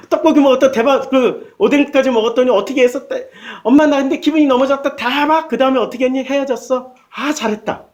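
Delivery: lightly voiced chatty girl and mother; playful back-and-forth, gossip style; a hint of a giddy teen telling mom; acted chat with mom. Daughter chats with mom, acted dialogue.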